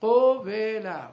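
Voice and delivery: قوله very slowly as qo-ve-la; syllable-by-syllable demo. Shown as a demonstration. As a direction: stretch each syllable of قوله. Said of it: "ببینید".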